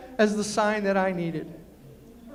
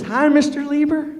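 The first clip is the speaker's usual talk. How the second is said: lightly voiced young boy, a bit higher; kid's greeting; 7 semitones higher, 8 dB louder than usual. Jonathan greeting his mom's date at the door, light kid voice. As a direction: chirp it like a cheeky nine-year-old.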